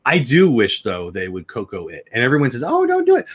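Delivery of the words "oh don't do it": mock pleading. Quoting people who resist change.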